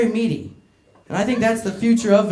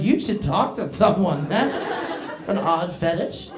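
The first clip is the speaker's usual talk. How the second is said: deadpan; 2 semitones lower, 4 dB quieter, slower than usual. Retold or imitated. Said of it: "I'm like".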